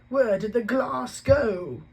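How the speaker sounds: high, slow, stunned zookeeper; shocked disbelief. Acted. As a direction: gasp it out in bewildered shock. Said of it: "in shock".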